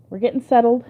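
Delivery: squeaky laugh while tickled; being tickled. Real, not acted. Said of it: "oh, he's tickling me so bad".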